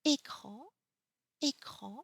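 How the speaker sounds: écran opened on a clear closed "é"; écran, first vowel like a pure "ay", said twice; accent aigu example. Shown as a demonstration. French teacher giving an example of accent aigu, écran with closed é. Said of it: "for example".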